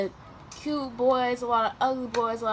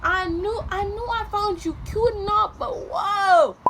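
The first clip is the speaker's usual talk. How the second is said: high, loud half-shout; flustered, half laughing; exclaiming; 10 semitones higher, 5 dB louder than usual. Retold or imitated. Retelling alarm at his advances.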